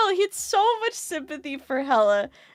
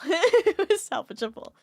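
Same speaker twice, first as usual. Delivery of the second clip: laughing repeat; 5 semitones higher than usual. Real, not acted.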